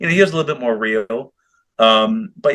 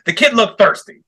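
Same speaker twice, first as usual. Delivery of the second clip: deadpan. Retold or imitated. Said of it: "Just stone cold face, no remorse".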